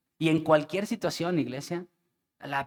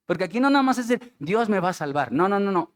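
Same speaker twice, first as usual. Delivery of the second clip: predicación apasionada; 4 semitones higher, 4 dB louder, faster than usual. Real, not acted. Predica con fuerza.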